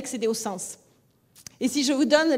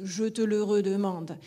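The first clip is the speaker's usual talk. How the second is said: «je te le redemande» southern French, each e pronounced; Toulouse lilt with full syllables; Toulouse accent; 3 semitones lower than usual. Shown as a demonstration. Teacher showing how Toulouse says it. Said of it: "comme je le dis à Toulouse".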